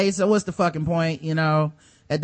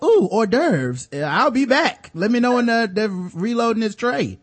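fancy fish; 4 semitones higher, slower than usual. Retold or imitated. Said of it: "the fish is like".

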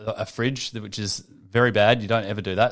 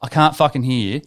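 louder, exasperated shouting down the phone; retold frustrated yell; 4 dB louder than usual. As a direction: yell at a caller you can't hear. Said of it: "And I'm like".

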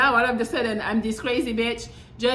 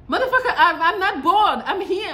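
laughing, higher and louder retort; laughing outburst; 7 semitones higher, 6 dB louder than usual. Real, not acted. To people saying she looks bored, laughing and louder. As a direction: laugh it off at the remark.

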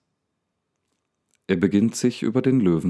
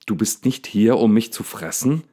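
bursting out, higher and a bit louder; blustering, agitated; 4 semitones higher, 3 dB louder than usual. Acted. Daniel loses his temper with the lion, blustering. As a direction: let it blow up out of him. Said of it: "poltert es erregt aus ihm heraus".

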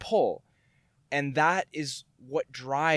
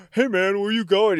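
black guy voice; 6 semitones higher, 4 dB louder than usual. Retold or imitated. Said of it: "it's like the voice of a black guy".

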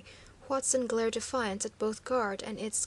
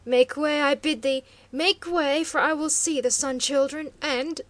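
loud, higher, commanding yell; furious shout; 4 semitones higher, 9 dB louder than usual. A narrator's reading. Chieftain furiously shouts at guard to let him through. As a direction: roar the demand to pass. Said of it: "he cried hoarsely".

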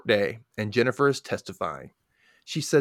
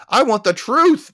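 high, loud, drawn-out mock shout; imitated yell; 11 semitones higher, 8 dB louder than usual. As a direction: slowly belt it like a desperate man. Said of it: "He yells".

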